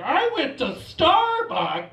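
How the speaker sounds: high, loud, drawn-out announcement; mock-excited tourist boast; cliche American tourist. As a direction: proclaim it slowly with hammed-up pride. Himself as cultural cliche, showing off.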